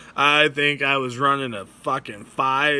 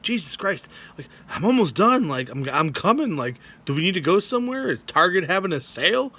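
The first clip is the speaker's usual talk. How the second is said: exasperated; 5 semitones higher than usual. Retold or imitated. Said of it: "And I'm like".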